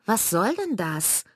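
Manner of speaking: mother breaking up the sisters' fight; stern shout. Acted. Laut und streng dazwischengerufen.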